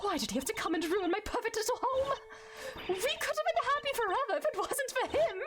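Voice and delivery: high, rising villain breakdown; a cornered warden ranting at the court; unhinged warden. Acted. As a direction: crack under pressure, voice climbing. Voices Lagarde's breakdown.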